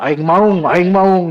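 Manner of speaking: mock raging boast. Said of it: "Nanti ngamuk-ngamuk".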